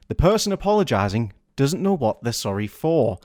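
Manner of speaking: ordinary delivery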